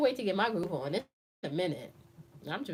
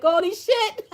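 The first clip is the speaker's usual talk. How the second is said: mock shock; 12 semitones higher, 9 dB louder, slower than usual. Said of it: "Inside, he was like".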